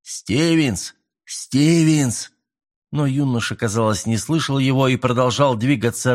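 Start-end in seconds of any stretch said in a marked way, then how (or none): 0.0-2.3 calling out. A narrator's reading. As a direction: call up the cliff through cupped hands. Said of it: "капитан сложил ладони рупором".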